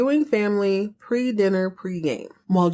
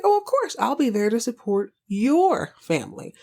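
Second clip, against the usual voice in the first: sarcastic sweetness; 4 semitones higher than usual. Retold or imitated. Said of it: "And she's like".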